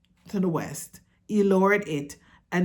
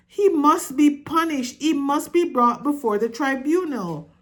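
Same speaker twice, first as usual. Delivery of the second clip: much higher and louder, commanding; furious shout; 8 semitones higher, 4 dB louder than usual. A narrator's reading. Father mouse shouts that his son must be punished. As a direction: roar out the sentence. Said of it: "shouted Lester".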